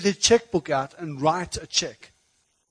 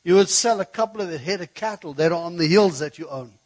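raised, loud mock outburst at God; retold angry complaint; 7 dB louder than usual. Preacher retelling his gripe to God, mildly angry. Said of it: "I got angry".

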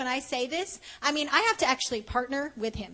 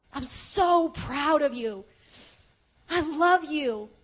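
tender; 3 semitones higher, slower than usual. Retold or imitated. Heaven repeats praise, slower.

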